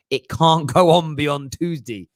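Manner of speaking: Tuesday said American-style with a choo sound; tchoozday, American-sounding; slipping into an American Tuesday; odd Tuesday. Real, not acted. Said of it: "Why did I say Tuesday like that?".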